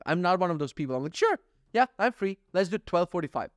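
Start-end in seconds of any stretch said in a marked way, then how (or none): 1.2-3.5 mock cheerful eager. Eagerly agreeing to dentist.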